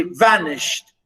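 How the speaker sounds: vanished with strong VAN, light ished; first-syllable stress. Shown as a demonstration. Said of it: "stress on the first one".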